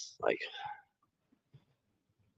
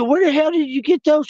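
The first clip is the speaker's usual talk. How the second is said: mock surprise; 5 dB louder than usual. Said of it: "I said".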